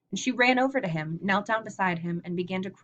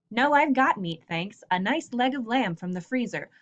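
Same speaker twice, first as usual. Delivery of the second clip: class read-aloud with light character voices; story read aloud. Acted. Teacher reading the grocery store scene to the class, lightly voiced.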